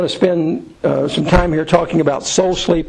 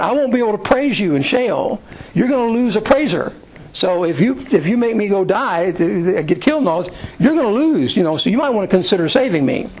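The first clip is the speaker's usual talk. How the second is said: a higher, half-joking plea, bargaining with God; David bargaining; 4 semitones higher than usual. Retold or imitated. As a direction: sell God the deal, pleading lightly.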